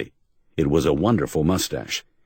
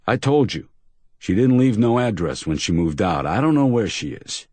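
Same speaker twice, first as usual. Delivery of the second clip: high, nervous bluster; mildly rattled bluster; rattled insistence; 5 semitones higher than usual. Acted. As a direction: insist though shaken.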